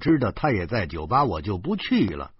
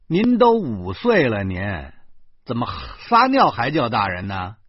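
scolding; 5 dB louder than usual. Acted. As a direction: tell the child off. Scolding the five-year-old.

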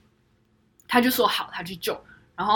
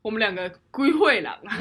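laughing. Retold or imitated. Quoting thought, laughing.

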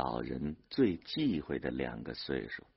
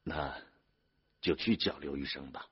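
soft, resigned giving in; low-energy, reluctant consent; helpless resignation; 3 semitones lower, 6 dB quieter than usual. A narrator's reading. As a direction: give in quietly with a long hesitation. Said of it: "孙玉厚无可奈何地说".

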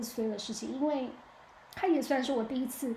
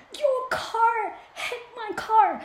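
loud, high imitated angry yell; angry accusation; 11 semitones higher, 9 dB louder, much slower than usual. Burly man at her car window accusing her, loud mock yell. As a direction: bark it like a furious stranger.

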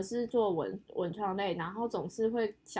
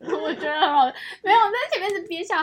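laughing while telling it, higher and louder; stifled giggles; 8 semitones higher, 9 dB louder than usual. Real, not acted. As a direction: try not to laugh, failing.

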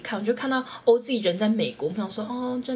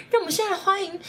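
imitated stage shout; 10 semitones higher, faster than usual. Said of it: "他突然高喊说".

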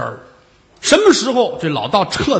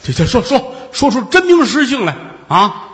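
flustered stammer; 4 semitones higher than usual. Acted. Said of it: "把老头儿气糊涂了".

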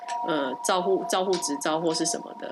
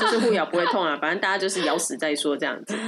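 laughing; faster than usual. Real, not acted. Laughing along at the joke.

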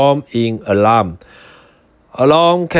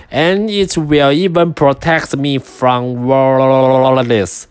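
little pig voice. Acted. Pig voiced in read story.

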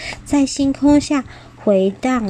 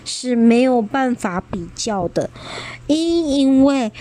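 低沉的声音. Acted. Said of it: "霸王龙低沉的声音".

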